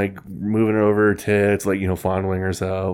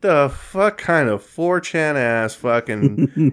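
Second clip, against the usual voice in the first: slow, higher disbelieving outburst; incredulous; 5 semitones higher, slower than usual. Retold or imitated. Retelling his own reaction to the video, incredulous. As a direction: drag out the disbelief. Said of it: "And I was like".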